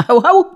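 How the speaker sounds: high, loud yapping "Hał, hał!"; mock dog bark. Husband hounded over a dog tax barks back, mock rabid. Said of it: "Typowa wścieklizna".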